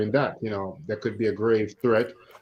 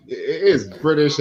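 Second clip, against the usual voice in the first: crisp British pronunciation; British accent; 2 semitones higher, 3 dB louder than usual. Shown as a demonstration. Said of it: "you have to say it like that".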